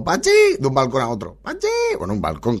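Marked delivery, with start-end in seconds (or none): 0.0-0.3 high-pitched call across balconies; mimicked long-distance yell; imitated shout. 1.4-1.7 high-pitched call across balconies; drawn-up high mock yell; imitated shout.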